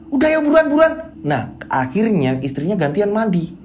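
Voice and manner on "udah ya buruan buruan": higher, pushy hurry-up; impatient wife. A narrator's reading. Wife rushing husband out the door, higher and impatient. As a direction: nag him to hurry.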